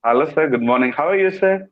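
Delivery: a humble hello to the boss; respectful greeting. Shown as a demonstration. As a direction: greet the principal politely. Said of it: "different tonalities shown in your voice".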